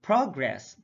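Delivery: PROgress, falling away after PROG; careful demo of PROgress; stress on first syllable. Shown as a demonstration. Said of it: "stress is the verbal emphasis used".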